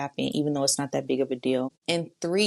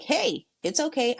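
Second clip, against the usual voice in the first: put-on reassuring a child; 7 semitones higher than usual. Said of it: "I'm talking to that kid".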